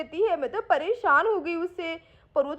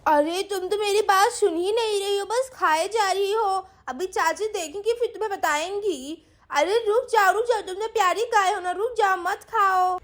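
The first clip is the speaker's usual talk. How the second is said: put-on a sweet girl coaxing the cow, pitched up; little girl Sweety; 3 semitones higher than usual.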